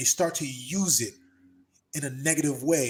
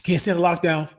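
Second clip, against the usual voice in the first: louder, pumped-up bro voice imitating his friend; mock hyped buddy; 6 dB louder than usual. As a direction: play the eager protester bro. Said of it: "And he's like".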